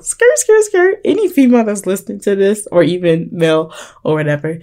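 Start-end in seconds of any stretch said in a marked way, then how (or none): 0.0-1.0 high-pitched playful "skrrt" noises; high mimicked skid sound; mock tire screech. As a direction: squeal it like screeching brakes. Mimics screeching brakes to interrupt herself.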